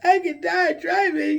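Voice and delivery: high, drawn-out mock wail; imitated crying. Patient scared she could die driving, acted-out crying. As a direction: re-enact a panicked, tearful whine, slowly. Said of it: "So now I'm crying like".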